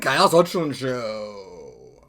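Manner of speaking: loud, hyped show intro; over-caffeinated big welcome; too much caffeine. Real, not acted. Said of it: "three cups of coffee today".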